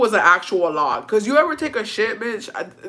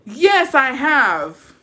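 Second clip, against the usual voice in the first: drawn out; 5 semitones higher, much slower than usual. Acted. Answering a comment, drawn out.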